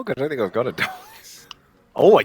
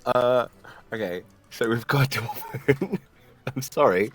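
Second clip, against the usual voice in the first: usual speaking voice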